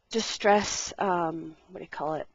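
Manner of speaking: out of breath, between words; short of breath. Real, not acted. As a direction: speak as if winded. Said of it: "I'm getting short of breath here".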